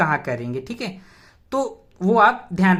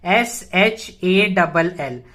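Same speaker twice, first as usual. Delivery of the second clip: each letter said slowly and separately; spelled out slowly; 3 semitones lower, much slower than usual. Shown as a demonstration. Teacher spelling shall to students, slowly. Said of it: "shall, S".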